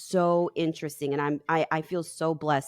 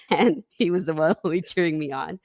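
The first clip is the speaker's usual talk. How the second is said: laughing; 3 dB louder than usual. Real, not acted. Laughs retelling dad cheering.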